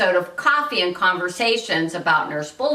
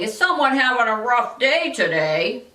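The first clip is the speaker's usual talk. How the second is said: higher-pitched mock-sympathetic condescension; condescending; 4 semitones higher than usual. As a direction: talk down to them with put-on concern. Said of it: "indirect or even condescending".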